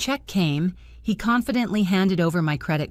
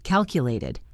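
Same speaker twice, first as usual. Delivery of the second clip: usual speaking voice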